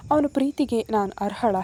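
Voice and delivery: ordinary delivery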